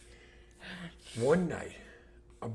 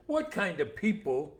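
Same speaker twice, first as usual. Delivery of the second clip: mocking laugh; 10 semitones higher, 6 dB louder, slower than usual. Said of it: "he laughs, he says".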